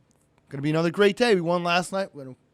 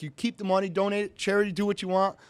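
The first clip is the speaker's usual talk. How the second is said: higher-pitched retold plea; pleading; 4 semitones higher than usual. Suspended driver offers up his winnings to the official, pleading. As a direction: offer anything, in an imitated plea. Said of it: "So I'm pleading with him".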